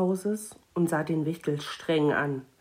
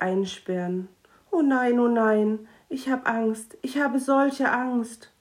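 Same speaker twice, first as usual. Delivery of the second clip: higher, anxious, rising into panic; small gnome fears his boss's punishment; frightened gnome; 4 semitones higher than usual. Acted. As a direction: whimper out growing fear.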